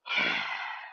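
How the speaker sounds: low, soft sigh in imitation; imitated heavy exhale; acted sigh. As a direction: let out a long mock sigh. Acts Kross's weary reaction.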